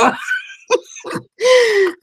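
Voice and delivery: laughing till almost crying; cry-laugh up high; real tearful laugh. Real, not acted. Laughing at Lori's reply.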